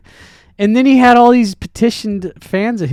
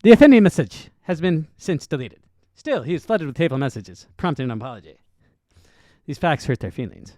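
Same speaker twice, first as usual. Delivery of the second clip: Ben Shapiro impression; faster than usual. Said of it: "How about you do it in Ben Shapiro's voice".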